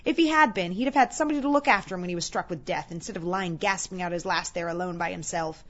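lightly voiced scornful old gossip, emphatic; hard-hearted woman justifying herself with relish; gossiping charwoman.

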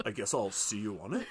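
"on it" swung upward like a question; deadpan sign-off with a rising tail; mock uptalk. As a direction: end the statement as a question on "it". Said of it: "just like my sentence".

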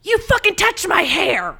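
high furious shrieked yell; patient screaming at the nurses from her doorway. Retold or imitated. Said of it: "yelled out".

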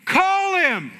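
high, laughing dare from the wife; mock defiant wife. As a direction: toss it back with a laugh, high and loud. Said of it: "She goes".

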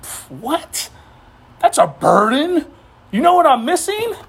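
mock-whiny excuse-maker dying to skip church; dismissive churchgoer. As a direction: brush it off with a mocking pff. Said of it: "They're like".

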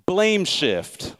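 dry sarcastic jab. Retold or imitated. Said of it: "pick up on the sarcasm".

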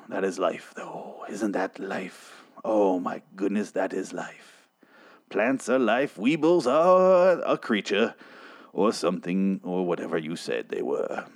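slow, solemn sage voice; Morgan Freeman. Acted. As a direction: muse on it with overblown poetry. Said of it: "he's doing his Morgan Freeman, being overly poetic".

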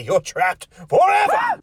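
gleeful taunt. Acted. Host taunts the possessed doll, high gleeful shout. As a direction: crow it at her with relish.

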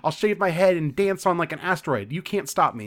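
quick rebellious rant, lightly acted; mock defiance. Daughter in huge fight with her mother, mildly defiant. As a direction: reel off threats at a controlling parent. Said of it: "has this huge fight with her mother".

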